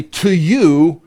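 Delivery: "To you" set apart and pointed; emphatic. Acted. Satan making his offer to Jesus, emphatic. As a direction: press firmly on "To you". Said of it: "So emphatically".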